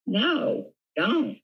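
high-pitched imitation of a fretting director; mock protest. Director telling actor to drop the Southern accent, mock protest. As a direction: squeak out a retold objection.

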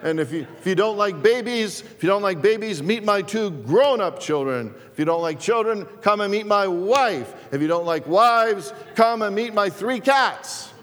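loud, high hard-sell pitch, pushing every line; pushy TV car salesman. Retold or imitated. Pastor imitating a TV car salesman, loud hard sell. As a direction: ham up a pushy car dealer on a TV ad. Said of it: "talked real fast... and loud".

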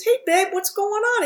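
a hint of her old Jewish dad picking up; mock dad voice.

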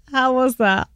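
hushed conspiratorial whisper. Real, not acted. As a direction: lean in and whisper a secret. Conspiratorial whisper over Chewbacca.

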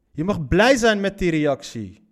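slow, sarcastic repeat with blij leaned on; mocking. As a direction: drag it out like you don't buy it. Herhaalt citaat spottend. (spottend en traag, nadruk op blij)

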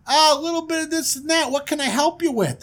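high, loud hail to the fellas; hammed-up glad-handing host, high-pitched; brash prince. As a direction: greet them like a big-shot prince. Prince answers the strangers.

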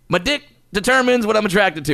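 high-pitched, lightly put-on comedian voice; a hint of celebrity impression; Cosby. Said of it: "said that kinda like Cosby".

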